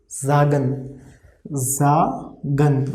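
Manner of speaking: zagen with a voiced z and a plain g; German pronunciation demo. Shown as a demonstration. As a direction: say zagen as zah-gen. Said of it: "overall pronunciation of this word is".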